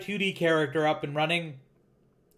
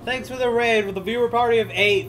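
excited; 6 semitones higher, 5 dB louder than usual. Real, not acted. Thanking raiders on stream.

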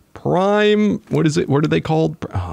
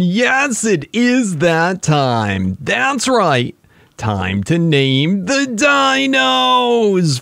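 hyped announcer; 4 semitones higher, much slower than usual. Acted. Announcing the naming segment.

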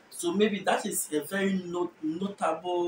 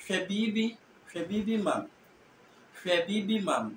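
"Hwebibi mam" as Fanti says it; Fanti accent; 2 semitones higher than usual. Shown as a demonstration. Teacher giving a Fanti example, Fanti accent. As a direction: give "Hwebibi" its Fanti tune. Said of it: "Fanti would perhaps say".

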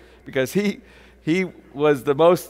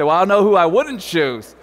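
louder, with a laugh; laughing quote; 5 dB louder than usual. Retold or imitated. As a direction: toss the line out laughing. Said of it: "you say".

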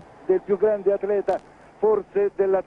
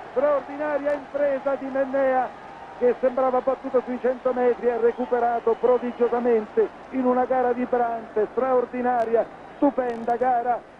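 excited commentary; 4 semitones higher than usual. Real, not acted. After the win, still excited.

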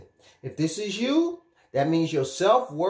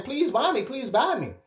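high, hammed-up begging; mock pleading; 6 semitones higher than usual. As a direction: beg eagerly in a raised, comic voice. Acts out diamonds begging to be bought.

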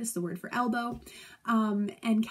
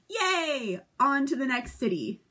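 cheering; 3 semitones higher, 4 dB louder, slower than usual. Retold or imitated. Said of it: "And Henry was like".

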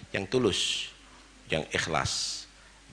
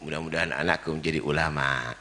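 sincere parent's prayer; 3 semitones lower than usual. Retold or imitated.

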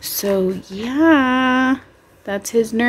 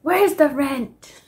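put-on New York accent; 6 semitones higher, slower than usual. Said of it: "I can't say it though, but in a New York accent".

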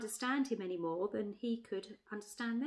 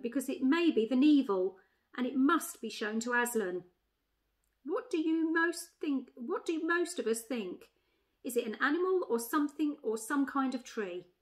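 higher, louder elephant taking charge; decisive she-elephant; 3 semitones higher, 4 dB louder than usual. Acted. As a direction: address the animals as their chairwoman.

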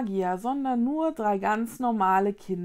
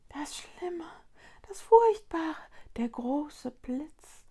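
tiny high creature voice, halting; high little voice, slowing on the last words; Lunis at the ear; 7 semitones higher, slower than usual. A narrator's reading. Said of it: "antworteten die Lunis dicht an Vickys Ohr".

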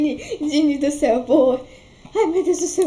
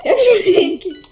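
excited shout; 4 semitones higher, 4 dB louder, slower than usual. Real, not acted. Excited shout spotting Shrek in game.

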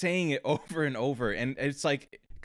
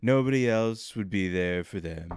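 put-on drunk Trump voice; slurry Trump, slowing at end; Trump impression; 2 semitones lower than usual. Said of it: "You sound like a drunk Trump".

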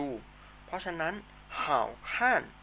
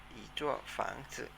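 อีจั่วฝังจื่อ drawn out slowly and softly; slow soft model of อีจั่วฝังจื่อ; อีจั่วฝังจื่อ said slowly, syllable by syllable; 8 dB quieter than usual. Shown as a demonstration. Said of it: "ออกเสียงตามนะครับ".

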